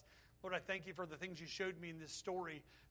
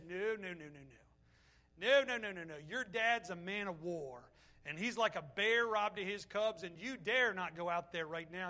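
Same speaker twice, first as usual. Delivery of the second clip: urgent pleading; 4 dB louder than usual. Acted. Pastor acts out Hushai pleading.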